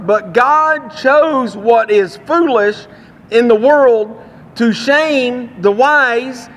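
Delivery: measured, deliberate Bible reading aloud; scripture reading. Acted. Preacher reads First Corinthians to the congregation, measured scripture reading. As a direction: read the passage out with weight on key phrases.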